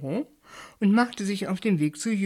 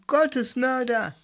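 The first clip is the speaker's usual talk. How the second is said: higher, slow accusing cry; outraged cry; 7 semitones higher, 4 dB louder, slower than usual. A narrator's reading. Julius accuses Bert of killing God, slow outraged cry. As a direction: hurl the accusation. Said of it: "schrie Julius".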